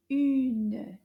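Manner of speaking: Une said loud and clear as a model; modelled French word. Shown as a demonstration. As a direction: give Une firmly for the class to copy. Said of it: "So this sounds like this".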